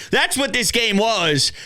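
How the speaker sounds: usual speaking voice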